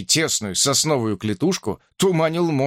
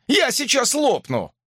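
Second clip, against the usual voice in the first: shouting; 11 semitones higher than usual. A narrator's reading. Shouting through the outhouse door.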